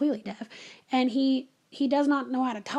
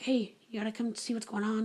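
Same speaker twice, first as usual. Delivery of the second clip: whispering; 3 semitones lower, 7 dB quieter than usual. Retold or imitated. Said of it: "I kinda whispered".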